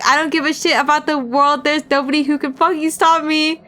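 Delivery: greedy thug, cocky and gleeful; gleeful, boastful thug voice; gloating thug. Acted. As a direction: crow about your power like a bully. Thug's gleeful inner voice.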